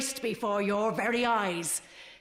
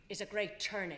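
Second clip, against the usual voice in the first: distant off-mic speech; far from the microphone; 7 dB quieter than usual. Real, not acted. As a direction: speak away from the mic. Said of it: "you need to actually step up to the microphone".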